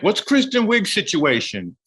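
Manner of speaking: high, slow put-on nosy voice; pry like a nosy stranger, high and slow; mock fan question. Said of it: "it was like".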